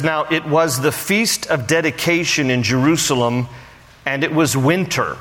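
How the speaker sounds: measured Bible reading voice; scripture reading. Acted. Pastor reading scripture to the congregation, measured. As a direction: read the passage to the congregation.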